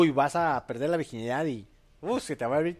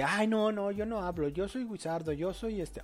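mocking shy nerd; 4 semitones higher, 5 dB quieter than usual. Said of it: "el meme chanero gringo de que".

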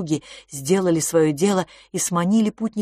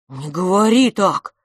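shocked; 6 dB louder than usual. Acted. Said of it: "потрясённо выдохнул".

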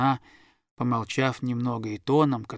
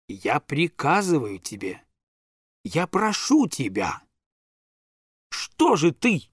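slow order turning into a raised, pleading ask; grandmother pleading; 3 semitones higher, slower than usual. Acted. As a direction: command softening into a begging plea. Grandmother orders then begs.

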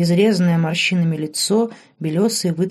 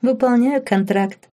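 slow, higher playful voice; a touch higher and teasing; giggly reply; 6 semitones higher than usual. Acted. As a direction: answer with a shy giggle. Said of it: "хихикнула в ответ Лорен".

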